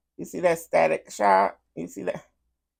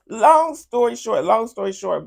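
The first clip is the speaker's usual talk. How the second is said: emphatic cut-in; 6 semitones higher, 6 dB louder than usual. Real, not acted. Host cuts to the point loudly.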